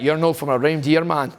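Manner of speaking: lightly put-on Scottish "You're not from a reindeer" with reindeer for around here; a hint of Glasgow street kids; imitating Scottish accent. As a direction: say "reindeer" the Glasgow way, run together. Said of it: "'Cause they're like".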